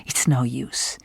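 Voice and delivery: a defeated, whispered aside; resigned whisper. Acted. The stranger giving up on explaining to Helen, whispered. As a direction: let it fall away in a whisper.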